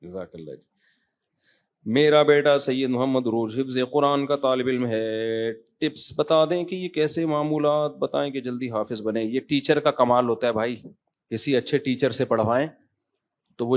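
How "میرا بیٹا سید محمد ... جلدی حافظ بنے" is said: slow singsong read-aloud with stretched endings; drawn-out question reading. Acted. Reads out a listener's question.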